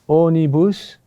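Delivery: accent the first "o" in onibus, letting "nibus" follow; stress on third-to-last syllable. Shown as a demonstration. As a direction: lean firmly on the "o" of onibus. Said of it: "the third to last syllable".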